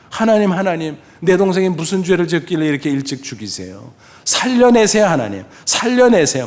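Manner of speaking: "살려내세요"를 높고 크게 울부짖듯; 어린 형이 울며 매달리는 기도; 통곡하며 기도. Retold or imitated. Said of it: "통곡을 하면서 기도했습니다". (동생을 살려 달라고 통곡하는 기도)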